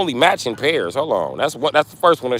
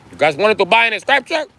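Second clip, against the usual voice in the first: excited pitch; 11 semitones higher, 4 dB louder than usual. Acted. Sales pitch.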